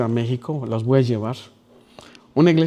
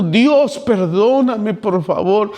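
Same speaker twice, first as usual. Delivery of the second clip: weeping prayer; 3 semitones higher, slower than usual. Retold or imitated. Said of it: "ahí estuve llorando".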